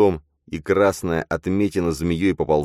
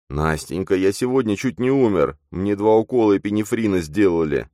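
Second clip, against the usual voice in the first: moaning; 5 semitones higher, 3 dB louder than usual. Acted. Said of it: "стенал Матвей".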